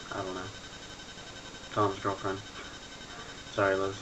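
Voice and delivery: whistling nose while talking; nose whistle. Real, not acted. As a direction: air whistling through the nose. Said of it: "My nose is whistling".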